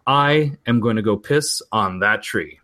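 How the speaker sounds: slow, mock-solemn declaration; grand announcement. Cousin announces to everybody at the table, mock proclamation. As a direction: announce it slowly to the whole party. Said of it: "stand up and announce to everybody".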